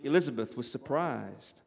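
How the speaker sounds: lightly put-on American accent for narration; vaguely American. Reading Austen to a live audience, vaguely American accent. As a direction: read it out in a rough American accent. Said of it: "vaguely American voice".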